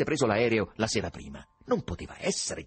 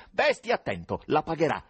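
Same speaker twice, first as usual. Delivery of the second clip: loud, high, furious threat; 6 semitones higher, 5 dB louder than usual. A narrator's reading. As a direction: hurl the threat down the phone. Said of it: "Lanciò ancora una minaccia". (minaccia urlata con rabbia)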